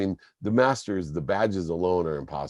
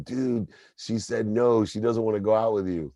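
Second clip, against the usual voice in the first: retold yell; 5 semitones higher than usual. Friend yelling the rejection in front of everyone, mock yell. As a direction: call it out to the whole camp. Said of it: "he yelled in front of everyone".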